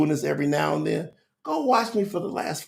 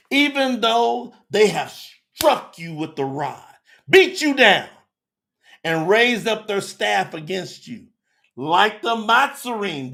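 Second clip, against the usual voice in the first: loud, raised, slow preaching voice; forceful scripture reading; 3 semitones higher, 6 dB louder than usual. Acted. Preacher reading God's words to the people, forceful scripture reading. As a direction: drive each phrase of the verse out.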